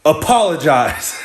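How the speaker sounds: mock-stern, stretched-out order; imitated demanding girl. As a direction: draw out the demand.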